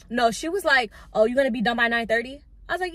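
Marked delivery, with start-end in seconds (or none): 1.1-2.4 fast, loud, rising jab; mock snippy boss. Boss snipping at the lash tech in front of her man, fast and loud. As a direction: snap the question back at her.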